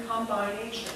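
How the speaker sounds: combination said as "com-BINE-ation"; spelling-style pronunciation. Shown as a demonstration. Teacher shows what she isn't saying, combination as "com-bine-ation". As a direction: say combination with combine's long i in the middle. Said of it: "I'm not saying combination".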